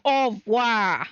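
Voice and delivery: a light French-accented au revoir; a hint of French in au revoir. Real, not acted. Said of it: "say au revoir with such an accent".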